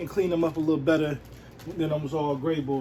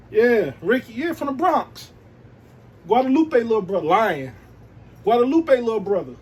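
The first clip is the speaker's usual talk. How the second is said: eager flirt; 5 semitones higher, 6 dB louder than usual. Pretend. Vlogger acts out flirting with J-Lo, eager and raised. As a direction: pretend smooth talker, higher and louder. Pretend pickup talk to J-Lo.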